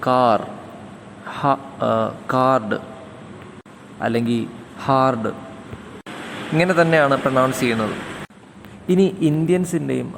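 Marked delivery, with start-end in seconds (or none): 0.0-5.3 കാർ, കാർഡ്, ഹാർഡ് with the r clearly sounded; American r sound. Shown as a demonstration. Teacher showing the American rhotic r in car and card. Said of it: "American ഇംഗ്ലീഷിൽ".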